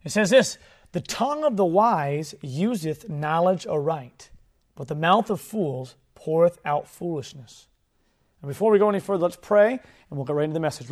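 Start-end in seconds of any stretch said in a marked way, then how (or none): 0.9-7.7 slow, deliberate Bible reading; measured scripture reading voice. Acted. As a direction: read the verse out slow and solemn. Reads scripture aloud.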